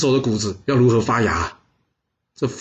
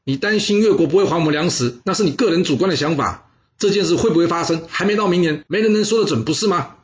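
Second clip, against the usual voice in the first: rebuking retort; 5 semitones higher than usual. Acted. Bo Pi rebukes the minister in a raised, scolding voice. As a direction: tell him off, mildly heated. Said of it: "大声的呵斥说".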